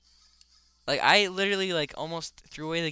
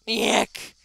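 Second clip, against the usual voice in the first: higher put-on squawk; screaming boss cry; 5 semitones higher, 4 dB louder than usual. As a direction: imitate the boss's short cry. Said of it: "he's screaming".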